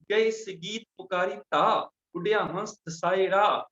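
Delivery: rhythmic, measured verse list; scripture recitation. Acted. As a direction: recite in steady cadence, each line evenly paced. (ਲੈਅ ਵਿੱਚ ਗੁਰਬਾਣੀ ਦਾ ਉਚਾਰਨ)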